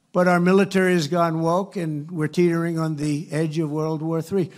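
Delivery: booming rally voice, pushed hard; loud rally delivery. Real, not acted. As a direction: call it out to the crowd.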